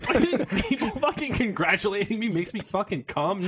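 laughing through the question. Real, not acted. Host laughing back at his co-hosts' teasing. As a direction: protest while cracking up.

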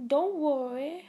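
light copy of a singer's reassuring line; a hint of a singer, sweet and upbeat; singer impression. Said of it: "That was an impersonation of a singer".

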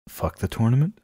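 aghast. Acted. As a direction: echo it as if you can't believe it. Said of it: "Walter's aghast".

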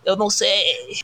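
angry shout. Acted. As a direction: shout the accusation in fury. Furious relative accusing the cook.

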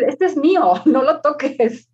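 put-on high, loud, slow little boy's claim; possessive child. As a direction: say it like a kid guarding his toy. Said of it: "Así". (niño posesivo, alto y lento)

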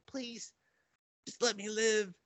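tiny, high begging voice; pleading. Retold or imitated. Last bunny girl begging the shooter, pleading. Survivor begs for her life.

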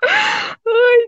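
high sympathetic "ay"; pained high ay; sympathetic cry. Real, not acted. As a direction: wince for her. Reaction to story.

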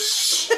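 long soft shush; drawn-out "shh", amusement behind it; imitated shush. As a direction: hush him while retelling. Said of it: "He goes".

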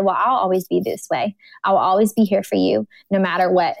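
steady, settled mild reassurance; retold reassurance. Husband comforting his weeping wife, retold with calm reassurance.

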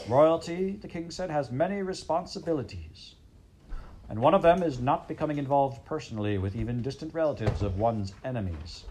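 a hammed-up haughty king; pompous king. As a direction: lecture her like a pompous king.

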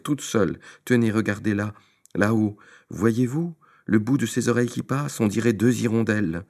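voix aiguë et plaintive de comédien; fausse détresse. Acted. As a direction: jouer la panique, exagérée. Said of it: "faisant mine de pleurer". (Tistet feint la détresse devant le pape, voix aiguë)

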